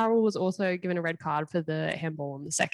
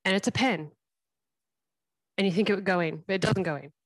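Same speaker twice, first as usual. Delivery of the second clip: short clipped phrases with pauses; staccato. Real, not acted. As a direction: deliver it in choppy bursts. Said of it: "a lot of staccato sentences".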